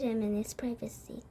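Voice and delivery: hushed whisper at sentence end. Acted. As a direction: drop to a whisper on the last words. Grandmother hints at secrecy.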